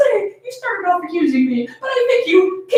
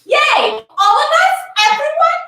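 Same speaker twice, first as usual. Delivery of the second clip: put-on higher, louder child's cheer; 8 semitones higher, 3 dB louder than usual. Little girl cheering to her family, high and excited. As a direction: bounce with excitement like a kid.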